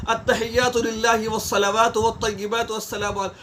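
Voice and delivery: each word of التحیات said distinctly, not rushed; steady, clear prayer recitation; clear unhurried recital. Shown as a demonstration. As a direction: recite the words calmly and clearly. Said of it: "پڑھنا آرام سے چاہیے".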